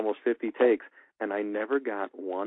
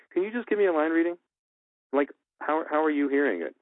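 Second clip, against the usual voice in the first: polite request; 7 semitones higher than usual. Shown as a demonstration. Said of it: "look 'em in the eye and say".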